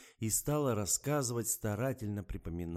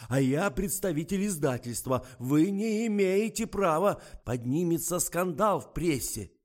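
much higher, much louder, slow; indignant threat; 11 semitones higher, 10 dB louder than usual. Acted. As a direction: push back with outrage. Publicist threatens the doctor.

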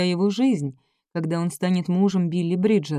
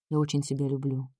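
softer and lower, a quiet loving admission; tender confession; 5 semitones lower, 6 dB quieter than usual. A narrator's reading. Джордж признаётся Билли в любви, нежно и тихо. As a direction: say it gently, from the heart.

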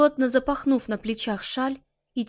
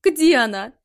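loud, desperate question; mother desperately asking where Molly is, loud; desperate plea; 2 semitones higher, 8 dB louder than usual. A narrator's reading. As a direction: demand to know where she is.

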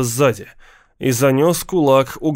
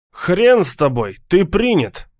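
shouting; 5 semitones higher than usual. Acted. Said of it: "проорал ему человек".

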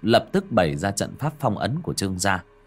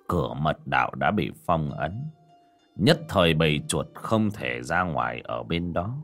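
put-on old master voice; 5 semitones lower than usual. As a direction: speak like a weary old sage. Old Taoist master speaks.

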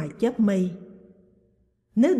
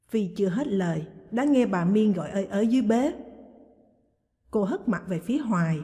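plain reading voice

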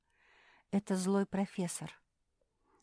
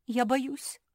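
a high, louder scared cry; shaking with fear; trembling fear; 7 semitones higher, 5 dB louder than usual. Acted. Phil admitting fear to friends, high scared cry. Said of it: "задрожал Фил".

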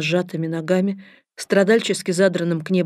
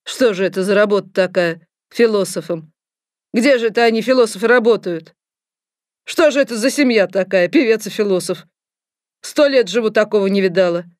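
disdainful wonder; 2 semitones higher, 4 dB louder than usual. Acted. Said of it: "со смесью брезгливости и любопытства".

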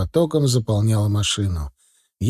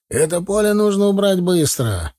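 higher, urgent reprimand; angry shout; 7 semitones higher than usual. A narrator's reading. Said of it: "закричал рассерженный агроном". (сердито, высоким голосом)

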